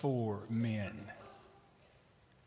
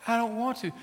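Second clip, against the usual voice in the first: put-on high whine of a reluctant child; scared little girl; 8 semitones higher, faster than usual. Girl leaning back from her pressing mother, whining. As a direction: refuse like a little kid, pitched up. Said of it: "scared to death".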